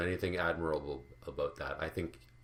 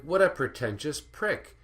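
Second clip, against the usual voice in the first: scornful aside; 8 semitones higher, 5 dB louder than usual. Retold or imitated. Mock inner reaction to the speaker.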